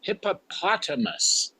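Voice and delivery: hippopotamus said the standard way, hip-uh-POT-uh-mus; correct pronunciation. Shown as a demonstration. Grammarian showing the right way, standard pronunciation. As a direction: give the proper hippopotamus. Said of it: "where it's".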